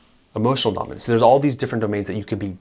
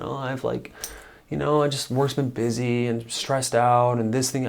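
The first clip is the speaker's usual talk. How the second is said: mock lame excuse; 3 semitones higher than usual. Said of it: "they kind of become complacent".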